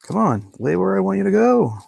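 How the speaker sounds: high, strained plea to the stubborn sheet; pleading with laminate. Real, not acted. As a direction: beg the material to lay flat.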